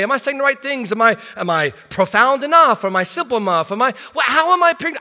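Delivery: high, quick worried inner voice; a pastor mocking his own insecurities; anxious self-talk. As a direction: fret through the questions rapid-fire.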